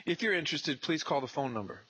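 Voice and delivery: high, sugary thank-you; grateful intern. Retold or imitated. Intern thanking the homeowner, high and sweet. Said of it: "he says".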